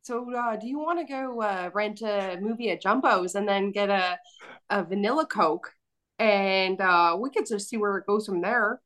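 easygoing Maritimer accent; maritime Canadian accent. Shown as a demonstration. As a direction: East Coast Canadian accent. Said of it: "Give me a sentence".

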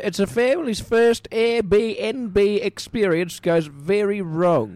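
slow, spelled-out reading for the hard of hearing; over-enunciate slowly, as if to a deaf old man; loud and slow. Acted. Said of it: "That's very kind of you to say it loudly".

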